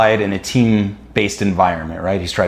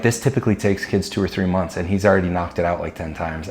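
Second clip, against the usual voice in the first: quoting the coach; 4 semitones lower, 6 dB quieter than usual. Retold or imitated. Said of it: "she was like".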